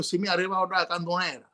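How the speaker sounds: quick Sicilian: "Si mi arriva da Cantonera"; Sicilian dialect. Shown as a demonstration. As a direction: rattle it off in Sicilian. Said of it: "But in Sicilian".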